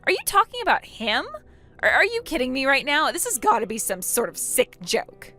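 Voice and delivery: high, incredulous questions; stunned and halting, pitch leaping up; shocked disbelief. Acted. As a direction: react as if it can't be true. Opal learns who is meant.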